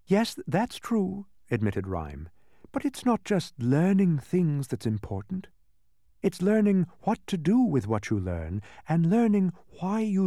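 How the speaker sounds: lightly voiced joyful princess; Rhyme voice. A narrator's reading.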